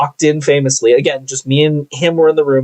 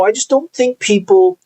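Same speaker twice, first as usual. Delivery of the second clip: half-whispered confession, a touch higher; mock whisper; 6 semitones higher than usual. Supervisor whispering his worry to coworker. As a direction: breathe the words out like a secret. Supervisor confiding, voice drops away.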